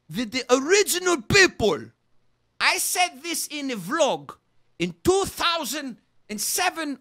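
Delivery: loud, drawn-out bellowed claim; triumphant shouting. Acted. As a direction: proclaim it to the world.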